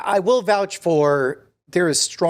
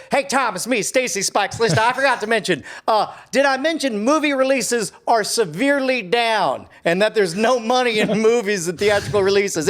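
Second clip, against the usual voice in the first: oil baron voice. Acted. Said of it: "my generic oil baron voice".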